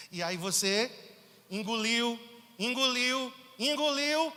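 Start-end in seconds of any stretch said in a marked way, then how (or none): 1.5-4.3 each engoliu higher and louder; building repetition. Real, not acted. Preacher hammering the swallowed anger, louder each time. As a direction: climb in pitch on every engoliu. Repeated word rising in force.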